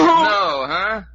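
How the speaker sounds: high, loud scoffing no; mocking shout. Man mocks the cornered boy's refusal with a loud jeering no. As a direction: bark it back at him.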